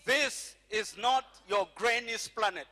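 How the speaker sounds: loud, emphatic rallying line; emphatic call-out. Shown as a demonstration. Preacher leading the congregation to repeat after him, emphatic call-out. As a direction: say it like you want it heard. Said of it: "Say it like you hear me".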